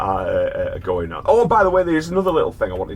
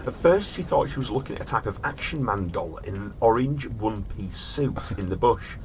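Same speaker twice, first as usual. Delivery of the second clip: measured storyteller reading; story narration; 3 dB quieter than usual. A narrator's reading. Host reads a strange case to his brother in storyteller voice.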